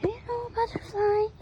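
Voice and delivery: high, soft coo to a butterfly; high-pitched little hello; sweet greeting. Real, not acted.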